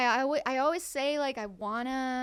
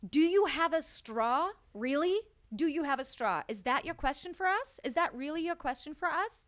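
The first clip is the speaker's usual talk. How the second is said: incredulous mock outrage; 4 semitones higher, 4 dB louder than usual. Woman scolding a guy at the bar, incredulous. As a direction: throw his question back at him. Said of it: "I'm like".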